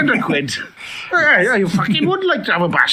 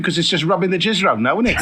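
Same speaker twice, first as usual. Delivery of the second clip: laughing through the words, fast; 2 semitones higher, much faster than usual. Acted. S1 laughing as he mocks Batman's rubber cape. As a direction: cracks up mid-sentence.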